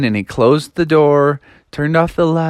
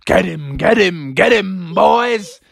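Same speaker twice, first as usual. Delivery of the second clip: chasing pumpkins; 4 semitones higher, slower than usual. Acted.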